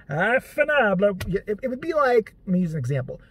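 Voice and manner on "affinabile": a mild mock sigh to the sky; imitating dad looking skyward; dad's exasperated phrase. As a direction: mutter it upward like a resigned curse. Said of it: "look up in the air and go".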